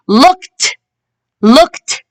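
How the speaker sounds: "looked" ending in a released t; teacher's model "looked", final t set apart; final t sound. Shown as a demonstration. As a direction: say "looked" with ed as a crisp t. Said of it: "We can hear the t".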